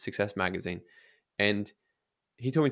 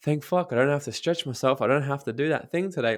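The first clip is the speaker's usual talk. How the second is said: lightly mocking relief, pitched up; relieved; 3 semitones higher than usual. Mocking someone glad to skip effort, relieved. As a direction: sigh it out like dodging a chore. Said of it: "be like".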